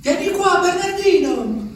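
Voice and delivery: chiamata alta e lenta, trascinata; richiamo degli ulivi. Pretend. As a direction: gli ulivi lo chiamano da lontano, acuti. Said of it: "Mi chiamano". (gli alberi chiamano Bernardino, voce alta e strascicata)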